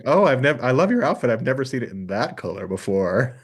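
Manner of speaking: mock-gushing compliment with a sting; retold backhanded compliment, lightly hammed up; throwing shade. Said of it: "they throw shade".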